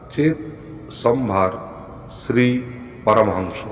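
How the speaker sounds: very slow mantra, phrase by phrase; drawn-out, dictation-paced chant; slow recitation. Shown as a demonstration. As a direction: leave long gaps so listeners can write. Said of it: "আমি আস্তে আস্তে বলছি".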